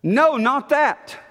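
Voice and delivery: mild Peter balking, slowed; mock Peter refusing. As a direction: push it away in disgust. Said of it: "note what Peter says".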